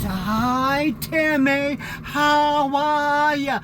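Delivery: put-on high, sweet little old nun greeting, drawn out at the end; high, slow, doting nun voice; elderly nun voice. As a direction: pitch way up like tiny Sister Maria pinching your cheeks. Voicing the nun greeting him.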